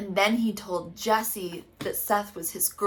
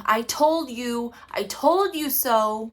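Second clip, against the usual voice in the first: mock yell; 3 semitones higher, 7 dB louder than usual. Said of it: "laughing and yelling".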